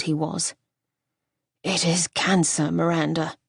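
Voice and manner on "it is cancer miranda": grave news. Acted. Husband telling his wife he has cancer, grave and gentle.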